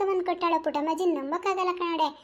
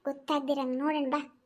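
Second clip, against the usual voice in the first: hushed village woman. Acted. Village women whispering plans to steal vegetables, hushed. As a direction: keep it down so granny won't hear.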